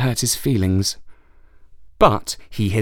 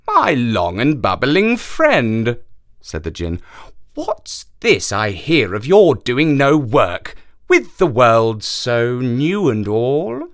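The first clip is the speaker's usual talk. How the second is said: slow djinn voice; slower than usual. Acted. Djinn addresses the camel.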